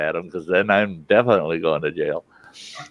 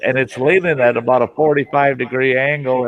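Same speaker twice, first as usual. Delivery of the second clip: imitating a yell from below, higher; raised, projecting retold call; mild retold yell; 4 semitones higher, 4 dB louder than usual. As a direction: call it up without really shouting. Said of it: "he yells up at me".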